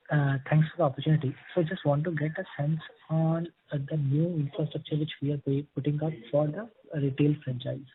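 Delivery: very faint, far from the mic; speaking too softly to be heard; barely audible. Real, not acted. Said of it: "your voice is very low".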